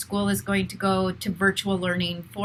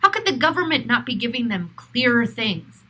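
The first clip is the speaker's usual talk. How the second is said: louder, fast and heated, still angry; exasperated frustration at the government; real anger; 4 dB louder than usual. Real, not acted. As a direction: let the anger push the words out fast. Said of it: "You can even hear in my voice that I'm still angry".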